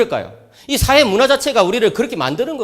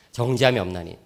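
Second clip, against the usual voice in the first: 정죄함이 없나니 repeated much softer and lower; 9 semitones lower, 6 dB quieter than usual. Shown as a demonstration. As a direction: echo 정죄함이 없나니 quietly to let it sink in. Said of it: "로마서 팔 장 일 절". (정죄함이 없나니를 낮고 조용히 반복)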